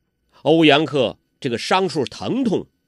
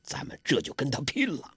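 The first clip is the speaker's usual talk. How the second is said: softer, held-down voice; quiet; 9 dB quieter than usual. A narrator's reading. Guo Jing quietly urging his friends to fight, softly. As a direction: say it under your breath. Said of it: "郭靖小声说".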